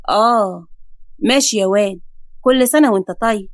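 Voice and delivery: grumbling neighbour at his window; lightly voiced old neighbour.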